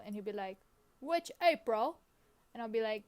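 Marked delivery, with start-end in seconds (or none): 1.0-2.0 higher-pitched imitation of an Australian voice assistant; attempted Australian accent, robotic helper role; Siri with Australian accent. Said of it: "do an impression of him".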